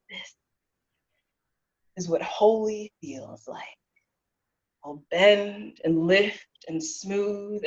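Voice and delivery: rhythmic slam-poetry delivery with stretched words and pauses; spoken-word poem. Acted. Dancer poet performing about music and blood to an audience, spoken-word poem. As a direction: perform it as a poem, building bursts and hushed drops.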